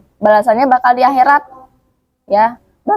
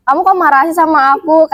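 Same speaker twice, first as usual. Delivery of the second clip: startled inner voice; 4 semitones higher than usual. Retold or imitated. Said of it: "Kayak dalam hati".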